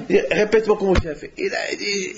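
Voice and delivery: laughing. Real, not acted. Recounting the funny scene.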